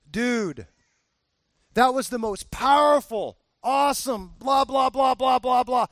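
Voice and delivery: mock-excited friend; hyped praise. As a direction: rave like a fan after church. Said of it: "He'll say".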